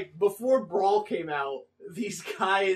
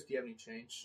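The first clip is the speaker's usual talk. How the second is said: homeless guy voice; 8 semitones lower, 18 dB quieter, faster than usual. Retold or imitated. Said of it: "And he goes".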